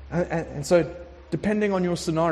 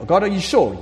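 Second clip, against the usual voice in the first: anxious doubt; 4 semitones higher, 7 dB louder than usual. Acted. Doubting believer questions God, urgent.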